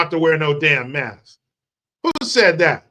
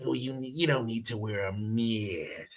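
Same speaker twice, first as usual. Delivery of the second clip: Fauci impression; 8 semitones lower, 16 dB quieter than usual. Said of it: "I hate the way he says mask".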